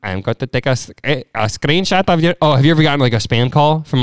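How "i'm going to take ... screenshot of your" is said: mock Indian tech-support accent; comic Indian caller. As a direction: imitate an Indian support agent. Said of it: "tech support calls".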